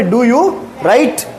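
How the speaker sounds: slow, stretched-out question; slow modelling. Shown as a demonstration. Teacher modelling a question for pupils, slowly. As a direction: draw out the words for learners.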